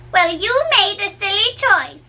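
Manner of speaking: teasing nurse. Shown as a demonstration. Said again differently.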